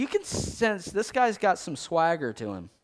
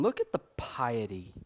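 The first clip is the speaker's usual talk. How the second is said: hushed, breathy aside; whisper; 6 semitones lower, 5 dB quieter than usual. Real, not acted. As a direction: drop to a whisper about piety.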